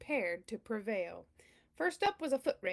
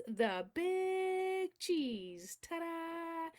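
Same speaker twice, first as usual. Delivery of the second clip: grand announcement; 5 semitones higher, much slower than usual. Acted. Grand title reveal.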